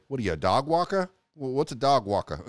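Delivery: mother lightly voiced with a Jersey accent; playful Jersey-accented disbelieving questions. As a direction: put on a mock Jersey accent for mom. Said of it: "a Jersey accent".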